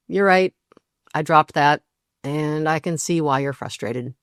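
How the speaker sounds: calm and grounded, softening at the end; a partner owning the mistake without collapsing; steady, calm acknowledgement. Shown as a demonstration. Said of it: "here's what a capacity response sounds like".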